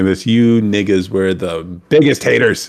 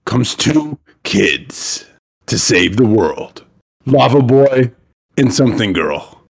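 slow, drawn-out blockbuster trailer read; movie trailer voice; slower than usual. Pretend. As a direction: announce it like an epic summer movie. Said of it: "voice of a movie trailer".

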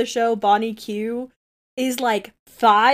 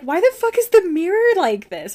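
mock frustrated; 9 semitones higher, 4 dB louder than usual. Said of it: "she'd be like".

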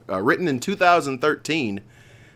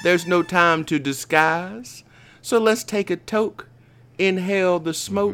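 stoner; 7 semitones higher than usual. Acted. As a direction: read it like you're blazed. Poem read after joking he's high.

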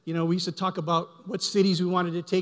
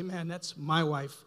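awed murmur; slower than usual. Retold or imitated. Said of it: "I say".

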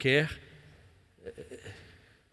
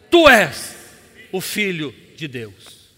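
loud then slow shouted proclamation; demon cry; 10 dB louder, slower than usual. Retold or imitated. (grito dos demônios)

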